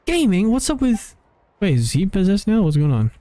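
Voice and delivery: high, chirpy companion voice; squeaky little helper, cheering up; high Paimon voice. Acted.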